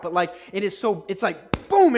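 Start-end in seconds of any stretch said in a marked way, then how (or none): 1.7-2.0 loud boom. Acted. Preacher illustrating impact.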